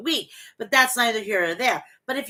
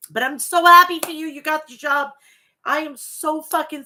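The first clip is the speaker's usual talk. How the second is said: higher, louder, fast burst of joy; gushing excitement; 6 semitones higher, 6 dB louder than usual. Real, not acted. Congratulating her moderator on the new job, gushing and fast. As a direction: squeal it out for her friend.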